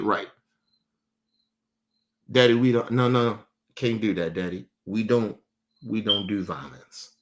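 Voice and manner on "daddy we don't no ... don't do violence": imitating daughter. Quoting his young daughter.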